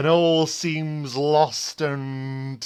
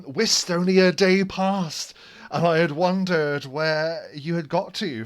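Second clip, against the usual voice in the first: a touch higher and louder, eager; lightly raised NPC voice; 4 semitones higher, 4 dB louder than usual. Acted. Brigand of West greets the party after arriving, lightly raised voice. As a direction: tell the news eagerly. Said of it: "he drops down and he says".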